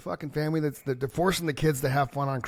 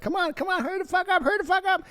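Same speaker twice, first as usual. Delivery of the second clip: put-on impatient kid. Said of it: "I'm sitting there with little Johnny like".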